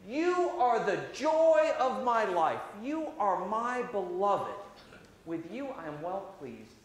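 voice of God. Acted. God's voice quoted to children.

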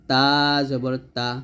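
তা জবর তা said thin and light; Arabic light ta demo. Shown as a demonstration. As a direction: keep তা light, not heavy. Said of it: "তাটা হালকা করে আমরা উচ্চারণ করব".

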